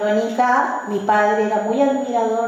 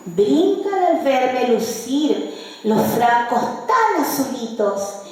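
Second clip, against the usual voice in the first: measured recital of rhymed verse, phrase by phrase; declaimed folk poem; poetry recitation. Shown as a demonstration. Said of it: "Voy a recitar las décimas".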